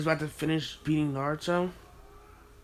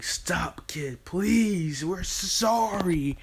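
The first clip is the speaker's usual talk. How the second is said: higher, pleading, slowing at the end; mock crying plea; 4 semitones higher, much slower than usual. Crying villagers pleading with the kid to stop. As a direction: beg through mock tears.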